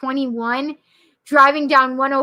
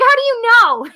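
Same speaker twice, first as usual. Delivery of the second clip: high, amazed question; astonished mother; 10 semitones higher, 4 dB louder than usual. Retold or imitated. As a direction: imitate a parent's startled disbelief.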